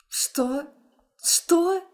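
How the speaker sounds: surprised. Acted. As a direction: caught off guard, repeating the word in shock. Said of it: "Удивлённо распахиваю глаза".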